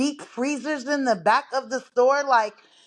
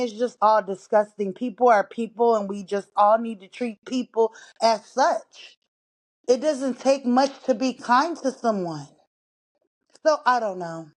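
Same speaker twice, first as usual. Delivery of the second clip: breathless from walking laps; out of breath. Real, not acted. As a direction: talk while slightly winded. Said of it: "if you're wondering why I'm out of breath".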